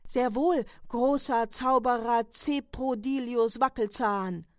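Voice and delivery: "Zeprodilius Wackelzahn" said slowly and sweetly, as if correct; innocent name mangling. Acted. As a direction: play dumb while twisting the name. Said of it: "sagte Kasperl ganz unschuldig".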